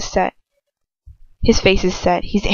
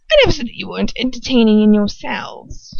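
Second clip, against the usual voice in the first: too bright. Acted. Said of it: "she says a little too brightly".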